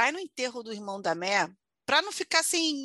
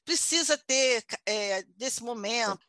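mock prayer; slower than usual. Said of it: "um cara fazendo, tipo, uma oração".

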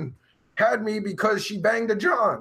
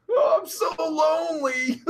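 higher, hammed-up crying whine; mock lonely wail; 9 semitones higher than usual. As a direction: fake a sob for pity. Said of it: "I'm all alone".

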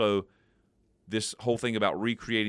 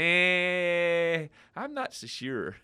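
puffed cheek blow; 7 semitones higher, much slower than usual. Retold or imitated. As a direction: let the air out like a balloon. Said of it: "I sounded like a balloon deflating".

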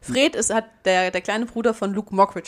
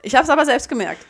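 laughing; 6 semitones higher, 5 dB louder than usual. Real, not acted.

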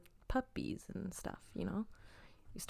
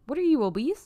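high, loud mocking jab; 8 semitones higher, 6 dB louder than usual. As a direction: toss it off with mock disbelief. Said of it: "Or is that".

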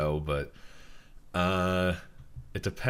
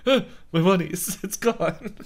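laughing mock wail; 10 semitones higher, 4 dB louder than usual. Own loss retold.

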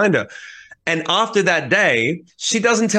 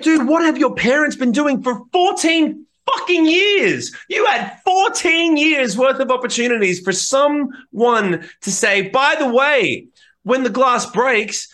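higher, slow rant at the parents; exasperated rant; 8 semitones higher, slower than usual. Retold or imitated. Teller ranting at kid's absent parents, high and slow. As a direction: drag out the disbelief at his parents.

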